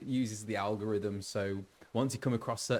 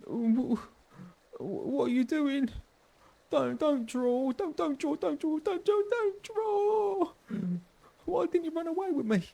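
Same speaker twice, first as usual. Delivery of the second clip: much higher, stammering and crying out; a panicked refugee sobbing his plea, high and strained; terrified refugee; 4 dB louder than usual. Acted. Terrified refugee begging his lost friend, high crying voice. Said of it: "he looks terrified".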